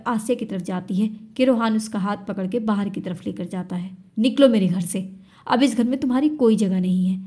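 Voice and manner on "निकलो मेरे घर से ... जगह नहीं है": louder hard order; a touch louder cold command; angry eviction. Acted. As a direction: push her out the door with words. Husband throwing wife out.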